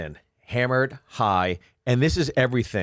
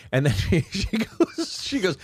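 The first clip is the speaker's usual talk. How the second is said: usual speaking voice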